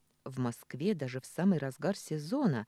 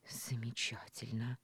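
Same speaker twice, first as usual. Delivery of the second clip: ироничный шёпот; 5 semitones lower, 9 dB quieter than usual. Acted. Маша смущена и зла.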